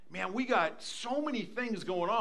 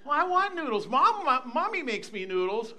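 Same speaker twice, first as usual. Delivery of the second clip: put-on higher, insistent little kid voice; whining grandchild; 4 semitones higher, 4 dB louder than usual. Grandchild demanding food from grandpa, mock whine. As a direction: imitate a child pleading.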